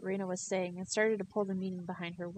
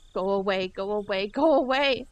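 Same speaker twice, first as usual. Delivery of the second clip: angry shout; 9 dB louder than usual. Acted. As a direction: bark her away. Keiichi yelling at Rena.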